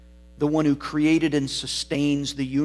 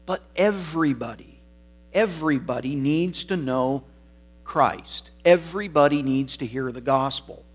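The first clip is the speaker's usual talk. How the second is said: raised, insistent pulpit voice; emphatic preaching; 3 semitones higher, 4 dB louder than usual. Real, not acted. Preacher urging that everybody needs the gospel, emphatic preaching. Preacher drives the point home.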